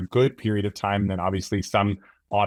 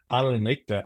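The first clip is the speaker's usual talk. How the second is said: German accent; 2 semitones higher than usual. Shown as a demonstration. Colleague shows the German way in a German accent. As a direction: say "Arnold and Richter" like a German speaker. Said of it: "with the German accent".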